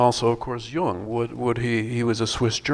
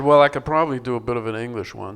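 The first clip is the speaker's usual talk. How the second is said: quick, louder aside in a put-on Irish lilt, playing Michael; mock Irish accent; 5 dB louder, faster than usual. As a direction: rattle it off as Michael with an Irish twang. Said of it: "any accents other than his own strange accent, this Irish thing".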